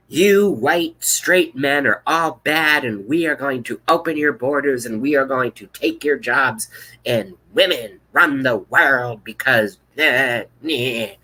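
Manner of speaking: hammed-up imagined State of the Union; mock Warren speech. Imagining Warren's State of the Union, mock preachy.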